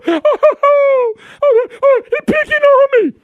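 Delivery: high, loud whiny crybaby voice; mock whining crybaby. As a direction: whimper like a tattling kid. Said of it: "They just cry, baby".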